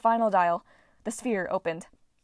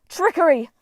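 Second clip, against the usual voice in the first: outraged cry; 8 semitones higher, 8 dB louder than usual. Acted. Goddess trapped in net.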